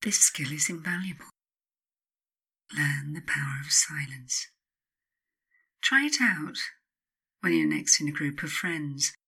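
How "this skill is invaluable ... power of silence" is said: whisper. Acted. Confiding advice, whispered.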